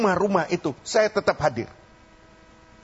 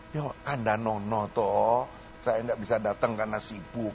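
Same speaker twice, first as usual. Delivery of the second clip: mock patient advice; 5 semitones lower, 5 dB quieter than usual. Preacher voices what member should say.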